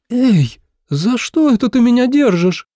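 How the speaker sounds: high, loud shocked question; shocked girl. A narrator's reading. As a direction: react in outraged shock. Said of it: "потрясённо спросила А Цинь". (потрясённо, громко и высоко)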